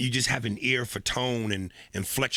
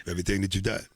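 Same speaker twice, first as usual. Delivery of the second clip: A rapper's prayer voice; 5 semitones higher than usual. Acted. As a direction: pray hard like a rapper. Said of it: "his prayers".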